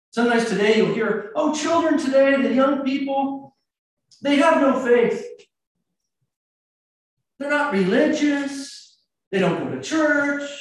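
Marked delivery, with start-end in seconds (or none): 1.4-10.5 put-on raised-pitch lament about the young; mock complaint.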